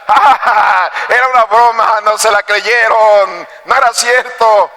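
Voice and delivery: acted laugh into drawn-out teasing; mock laughing taunt. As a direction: play the prankster boy crowing over his joke. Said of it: "carcajeándose y riéndose". (burla con risa fingida)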